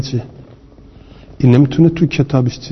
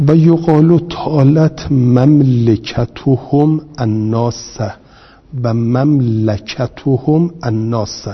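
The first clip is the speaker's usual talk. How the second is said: measured classroom recitation; slow text reading; slower than usual. Shown as a demonstration. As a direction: recite مملکتهم الناس deliberately. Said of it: "این درسته".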